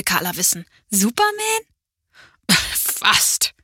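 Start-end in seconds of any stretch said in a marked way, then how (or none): 0.9-1.6 very high, bright guess; girl guessing Superman, high-pitched; high child's voice. A narrator's reading. 2.7-3.5 breathy laugh through the word. A narrator's reading. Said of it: "lachte Opa".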